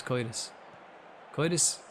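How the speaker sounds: Curtis said as "coitus"; comic "oy" vowel in coitus; put-on pronunciation. Shown as a demonstration. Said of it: "what accent is that?".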